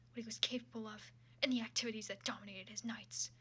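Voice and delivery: steady dramatic reading of a fan fiction; story narration. Acted. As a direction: read the prose like an audiobook. Resumes reading fanfic narration.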